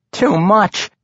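high-pitched halfling lament. A narrator's reading. Halfling who dumped the whole vial, lamenting. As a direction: lament an overdone mistake, voice lifted. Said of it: "Regis lamented".

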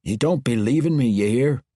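dwarf refusing to let her go; dwarf king voice. A narrator's reading. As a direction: voice the dwarf lord, pained. Bruner's pleading continues.

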